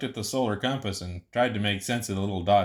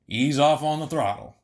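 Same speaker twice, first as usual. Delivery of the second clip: calm coaching; 5 semitones higher, 4 dB louder than usual. Acted. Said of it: "Feldspar coached".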